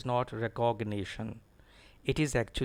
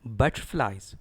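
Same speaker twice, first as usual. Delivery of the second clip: butterflies as BUT-tflies, lower and falling; stress on BUT; 4 semitones lower than usual. Shown as a demonstration. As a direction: lean on BUT in butterflies, swallow "ter". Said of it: "Stress is on B U T".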